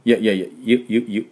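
いや and ゆ repeated, y glide clearly shaped; ya yu sounds. Shown as a demonstration. Teacher showing the European J sounding as y, softly. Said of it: "ゆですね".

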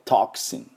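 "トクシン" as TAHK-sin with aspirated T; crisp English T. Shown as a demonstration. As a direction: say "トクシン" with a popping first T. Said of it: "Tの音".

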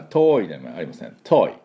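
English pronunciation of "遠い" as "too"; correct English too. Shown as a demonstration. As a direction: say "遠い" with a crisp aspirated English T. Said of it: "これが、えー、正しい発音です".

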